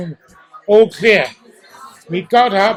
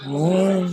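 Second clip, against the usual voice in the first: all-clear siren imitation; 4 dB quieter than usual. Repeating the all-clear siren for the interviewer, soft wail. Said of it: "like that".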